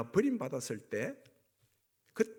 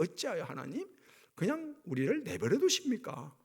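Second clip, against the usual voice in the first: imitated plea, pitch climbing at the end; retold lament; 4 semitones higher than usual. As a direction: act out a complaint to God. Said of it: "이렇게 탄식하는 거예요". (하소연하듯 탄식을 흉내 내며)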